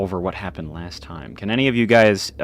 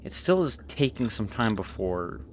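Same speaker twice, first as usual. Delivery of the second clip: game master narration; 3 semitones higher than usual. Acted. Game master sets scene.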